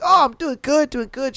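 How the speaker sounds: imitating an upbeat customer, starting high; lightly voiced peppy customer; high-energy customer. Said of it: "He had some high energy".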